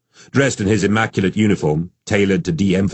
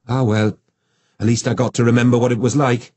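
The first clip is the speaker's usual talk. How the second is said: a hint of a higher, rueful wife; lightly voiced wife; 6 semitones higher than usual. A narrator's reading. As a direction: sigh it out, gently resigned. Jacinta voiced by narrator.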